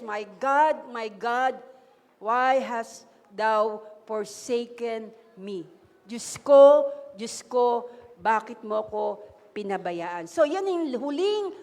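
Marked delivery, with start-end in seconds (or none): 0.0-5.6 lightly voiced Jesus on the cross. 6.0-10.3 mild anguished cry. Acted. Jesus's cry on the cross.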